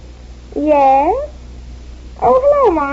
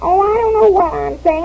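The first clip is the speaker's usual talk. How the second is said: tearful fluster; 4 semitones higher than usual. Acted. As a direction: voice catching, near tears. Friend breaks down, upset.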